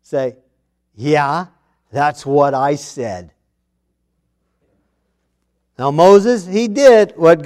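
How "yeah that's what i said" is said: imagined stern, unruffled God; calm but stern. Retold or imitated. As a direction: confirm it slowly, with calm authority. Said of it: "very calmly but sternly say".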